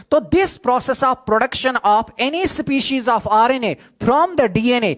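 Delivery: slow, spelled-out dictation pace. Shown as a demonstration. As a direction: give the definition word by word for notes. Teacher dictates definition slowly.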